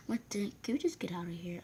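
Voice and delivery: urgent whisper; whispered plea. Retold or imitated. Friend begging to leave the fight, in an urgent whisper. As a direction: whisper it so the others won't hear.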